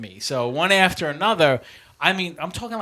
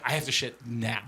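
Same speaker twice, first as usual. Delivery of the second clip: quieter, tight, strained voice; strained and desperate; 3 semitones lower, 6 dB quieter than usual. Retold or imitated. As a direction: hold it in, barely getting words out. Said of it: "there's two different kinds of".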